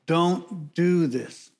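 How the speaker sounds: slow, deliberate warning, word by word; warning plea. Acted. Wife warning her husband off, slow pleading warning. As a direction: spell it out as an earnest caution. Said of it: "she's warning her husband".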